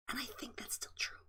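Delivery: breathy whisper under her breath; whispered aside. Real, not acted. Quiet aside amid lecture.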